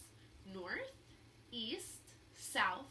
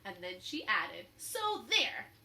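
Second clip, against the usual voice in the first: louder, higher smug retort; smug and proud; 4 semitones higher, 8 dB louder, slower than usual. A narrator's reading. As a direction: sure she's clever, so there. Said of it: "she said".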